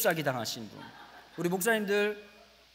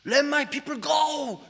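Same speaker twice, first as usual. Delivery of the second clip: slow, loud, drawn-out booming command, higher; Moses' command; 7 semitones higher, 5 dB louder, much slower than usual. Acted. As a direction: boom it out like Moses before Pharaoh. Moses confronting Pharaoh.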